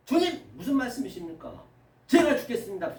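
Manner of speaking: acted-out earnest objection; pleading protest. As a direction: plead and push back, as the disciple. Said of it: "간청하면서 아주 대항하는". (간청하며 대드는 제자 흉내)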